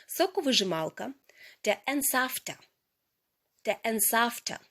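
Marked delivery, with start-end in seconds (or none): 3.7-4.6 whispered repeat. Shown as a demonstration. Teacher to students, repeating the word in a whisper. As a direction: breathe the word out as an echo.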